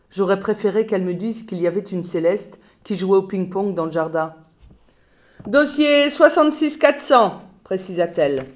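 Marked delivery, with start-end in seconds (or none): 5.5-7.4 slow, deliberate file number; slow official reading. Acted. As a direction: spell it out like a clerk.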